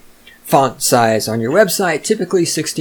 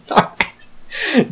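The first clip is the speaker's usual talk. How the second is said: laughing. Real, not acted. Laughing after own joke.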